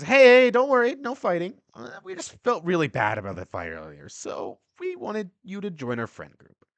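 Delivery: high, loud fake-friendly kid voice; blonde bully kid. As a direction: play the bully sweetly luring him in. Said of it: "The blonde kid says".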